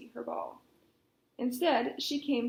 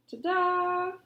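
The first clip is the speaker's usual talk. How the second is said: triumphant; 5 semitones higher, 6 dB louder than usual. Acted. Frog shows the ball.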